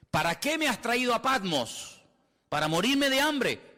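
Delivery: high, drawn-out mock complaint; acted protest. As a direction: cry out a slow, high-pitched complaint to God. Acted complaint to God at Patmos.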